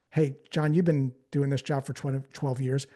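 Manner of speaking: low, calm, easy lead-in; gentle suggestion. Shown as a demonstration. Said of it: "we're gonna gently suggest what's possible".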